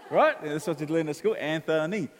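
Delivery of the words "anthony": "Anthony" sounded out in three beats; syllable by syllable. Shown as a demonstration. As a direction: say "Anthony" as An-tho-ny, syllables apart. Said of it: "Three syllables".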